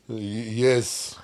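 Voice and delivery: hesitant put-on Russian accent; fake Russian accent. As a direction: play the shy Russian sailor. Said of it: "I thought I'd play up a bit".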